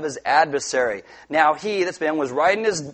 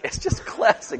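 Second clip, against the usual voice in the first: breathy whispered repeat; 10 semitones higher than usual. Real, not acted.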